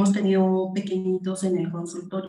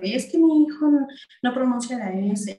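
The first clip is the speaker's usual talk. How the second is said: padre quejoso; 3 semitones higher, 4 dB louder than usual. Retold or imitated. Padres quejándose, voz imitada.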